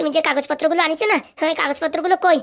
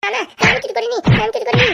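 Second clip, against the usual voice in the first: pleading denial; 5 semitones higher, 3 dB louder than usual. Acted. Son denying theft while beaten.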